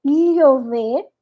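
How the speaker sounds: "llover" with a palatal lh sound, Panamanian or Bolivian; Panamanian accent. Shown as a demonstration. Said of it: "O panameño e boliviano é".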